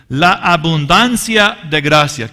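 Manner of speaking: abundancia drawn out slow and loud; stress on abundancia. Shown as a demonstration. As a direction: lean hard on abundancia. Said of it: "preacher stresses the key phrase". (énfasis en abundancia)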